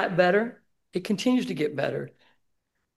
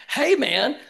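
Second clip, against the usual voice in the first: mock confrontation; 8 semitones higher, 6 dB louder than usual. Confronting an unstable homeless guy.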